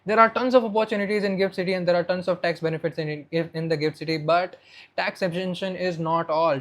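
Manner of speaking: rapid-fire presenter delivery; quick, fluent pitch. Shown as a demonstration. Coach improvises a tax presentation to show fluency, quick delivery. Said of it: "this is how you can maybe increase your speed".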